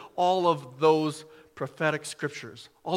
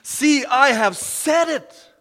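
higher, slow and louder, stretching each word; soaring repeat; 8 semitones higher, 5 dB louder, slower than usual. Acted. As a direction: lift it up to the rafters on the repeat. Repeat builds higher and slower.

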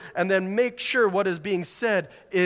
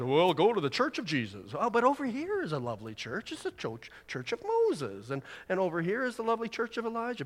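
mock salesman; 3 semitones higher, 4 dB quieter than usual. Mock churches advertising themselves.

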